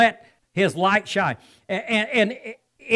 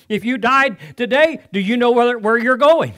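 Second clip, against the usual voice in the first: builds to louder on where you're going; retold challenge, building; 3 semitones higher, 4 dB louder than usual. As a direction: press the question harder each phrase.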